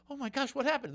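high-pitched startled voice; shocked lady. Acted. Lady comes home to the fallen plumber, high shocked voice. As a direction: voice a woman's alarmed discovery.

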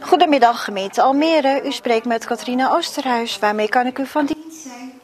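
bright, polite phone greeting; customer service voice. Real, not acted. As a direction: answer the call like a friendly helpdesk agent. Call centre agent answers phone.

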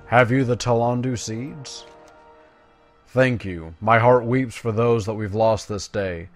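lightly voiced, urgent quest-giver; earnest elf commander. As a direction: read it as an elf leader rallying a champion. Reads grateful quest-giver's dialogue.

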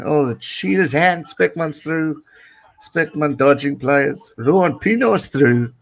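rising, excited play-by-play as the break opens; excited commentary. Real, not acted. Streamer calling a breakaway run to his viewers, excited. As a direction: call the run as it happens, pitch climbing.

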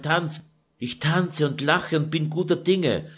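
put-on a tired young woman pouring out her grief; Lucretia lamenting. Daughter pouring out her sorrow to her mother, weary.

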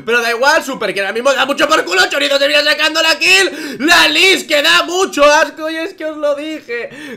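loud, high esports casting shout; hype play-by-play. Acted. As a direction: call the teamfight at full hype. Live play-by-play of a fight.

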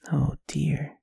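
ordinary talk, nothing marked

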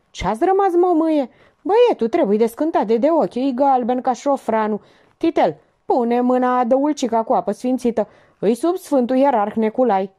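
comic busybody taking charge; bossy jokester. Acted. Joker ordering everyone about.

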